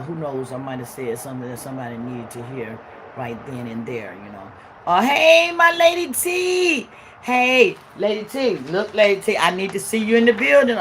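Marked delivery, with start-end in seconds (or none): 4.9-10.8 much higher, louder call to a friend; light up and call her over; excited greeting. Real, not acted. Calls out to viewer Lady T.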